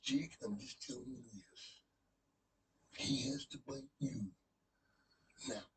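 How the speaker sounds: Macho Man impression. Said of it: "I'm like".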